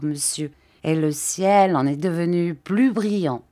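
lightly voiced gentle old man, hesitant; timid old Mr Dick. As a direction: shyly ask permission, lightly voiced.

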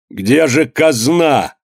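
a hint of the greedy master's shout; slow angry demand. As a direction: drag it out, furious and greedy. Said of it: "крикнул Иван Максимыч". (медленное злое требование)

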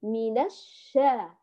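slow الشا with held sh and open aa; held ش opening into a long aa in الشا; doubled open shin. Shown as a demonstration. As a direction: model both shins in الشا slowly. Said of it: "هذه الثانية المفتوحة".

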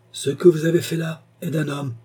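high-pitched, emphatic praise; hearty approval. A narrator's reading. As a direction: congratulate him with feeling. Uncle warmly congratulates the marquis.

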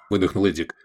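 plain reading voice

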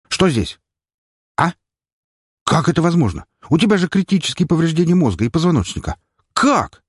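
high, fast astonished doctor; shocked doctor. Acted. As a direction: gasp in disbelief at the patient. (потрясённый врач)

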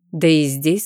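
plain reading voice

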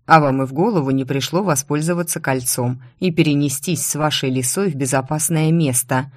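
plain reading voice

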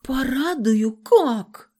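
high, slow, naive question; playing dumb. A narrator's reading. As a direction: feign innocent confusion. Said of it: "включила дурочку".

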